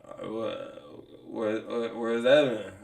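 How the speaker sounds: lightly imitated low, halting mumble; Gus's reluctant voice. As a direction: imitate someone who barely wants to speak. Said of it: "he don't wanna speak English for real".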